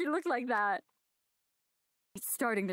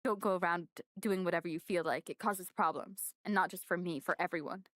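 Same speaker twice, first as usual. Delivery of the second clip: Kyoko voice; 4 semitones lower than usual. Acted.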